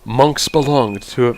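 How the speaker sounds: hint of a calm, focused monk; measured, tentative calm monk attempt. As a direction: try out a monk-in-training voice, accent creeping in. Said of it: "like, a calm monk voice".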